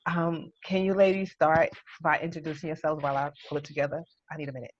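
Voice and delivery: barely holding it together, whispering; real choked-up whisper. Real, not acted. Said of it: "like, literally choked up".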